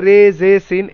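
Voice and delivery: "রে, জে, সিন" recited with e-ending letter names; letter names "রে, জে" with an e vowel; majhul pronunciation. Shown as a demonstration. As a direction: list "রে, জে, সিন" the faulty majhul way. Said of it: "সেটাকে বলা হয় মাজহুল".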